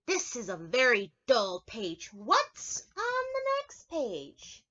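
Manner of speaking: lightly voiced puppet, complaining; Grover voice. Reading Grover's speech bubble.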